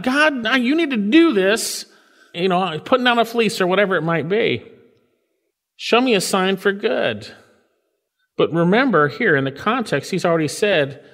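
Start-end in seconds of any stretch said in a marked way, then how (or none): 0.0-4.6 demanding test. Retold or imitated. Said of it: "Some say David's testing God". 5.8-7.3 "Show me a sign for good" pitched higher, as a challenge; demanding God prove himself. Retold or imitated. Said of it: "Some say David's testing God".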